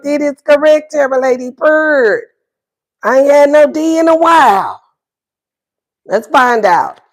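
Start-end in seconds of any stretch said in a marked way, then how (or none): 0.0-4.8 sassy viewer quote. Retold or imitated. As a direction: play the cheeky client who can't wait to get back. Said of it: "You like".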